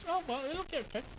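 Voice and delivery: imitating a carefree wife, high; quoting wife. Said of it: "She goes".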